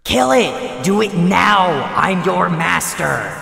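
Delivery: angry. Acted. Voice commands dog to kill.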